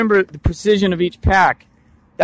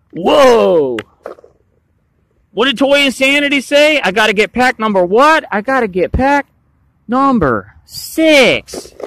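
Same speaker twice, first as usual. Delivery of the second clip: confused buyer; 6 semitones higher than usual. Retold or imitated. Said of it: "you're like".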